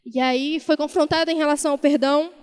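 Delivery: ordinary talk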